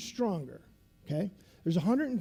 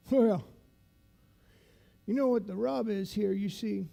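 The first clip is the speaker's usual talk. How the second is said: lightly imitated veteran instructor, deliberate with long pauses; instructor's voice. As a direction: lecture recruits in the old instructor's measured manner. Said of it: "he talks like this".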